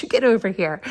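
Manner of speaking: stern callout to a distracted dog; firm call to the dog. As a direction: order the dog back to you. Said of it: "so of course I yelled at him".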